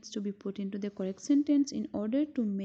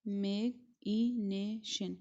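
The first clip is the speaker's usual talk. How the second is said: slow syllable demo; slower than usual. Shown as a demonstration. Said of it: "five syllables".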